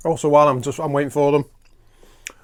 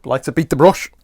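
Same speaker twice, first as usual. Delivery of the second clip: Bob Ross; 6 dB louder than usual. Pretend. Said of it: "I like to pretend I'm Bob Ross first".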